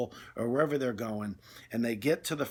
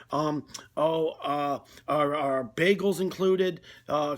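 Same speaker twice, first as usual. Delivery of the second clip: mock donut anxiety, stammering and dithering; flustered donut orderer; 3 semitones higher than usual. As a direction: play a customer cracking under pressure at the counter. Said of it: "they start strong".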